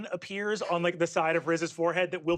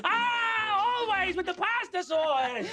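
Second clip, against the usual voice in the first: very high mock-crying whine; hammed-up anguished complaint; exasperated wail. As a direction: wail it like a put-upon child. Acted dream quarrel with mom.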